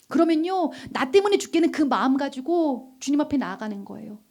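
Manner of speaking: ordinary talk, nothing marked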